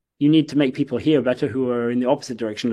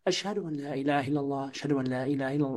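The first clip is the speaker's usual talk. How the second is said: speaking level; 11 dB quieter, faster than usual. Shown as a demonstration. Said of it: "at a speaking level".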